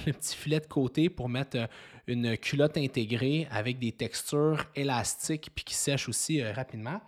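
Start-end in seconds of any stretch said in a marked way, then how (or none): 5.5-7.0 sipping coffee. Real, not acted. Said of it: "je bois un petit café en même temps".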